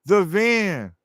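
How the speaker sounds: quick high back-pedal; high, insisting denial. Retold or imitated. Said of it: "I said".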